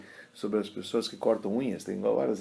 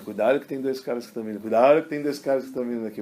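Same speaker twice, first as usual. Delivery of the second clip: raised, louder retold warning; urgent warning; 3 semitones higher, 5 dB louder than usual. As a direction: imitate villagers spreading the alarm. Aldeões alertando sobre os pilantras. (alerta urgente imitado, em voz alta)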